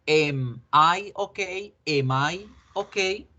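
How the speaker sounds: "Am" said slowly as "em" in "Am I okay?"; pronunciation model. Shown as a demonstration. Teacher models the question for students, slowly pronouncing "Am" as "em". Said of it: "ojo la pronunciación".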